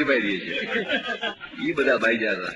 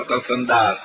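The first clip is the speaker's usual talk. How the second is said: name called louder each time; calling out; 4 dB louder than usual. Retold or imitated. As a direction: build the call from normal to loud.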